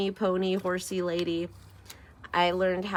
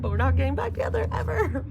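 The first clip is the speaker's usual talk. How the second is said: emphatic; 7 semitones higher, 6 dB louder, faster than usual. Real, not acted. Emphatic breakup declaration.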